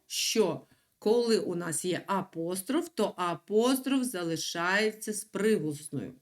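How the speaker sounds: ordinary delivery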